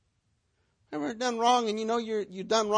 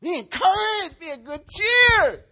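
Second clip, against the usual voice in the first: higher, louder, rallying call of an angel; encouraging angel; 6 semitones higher, 7 dB louder than usual. Acted. Angel tells Paul in the storm to take heart, loud and high. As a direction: cheer him on like a heavenly messenger. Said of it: "stood before him and said".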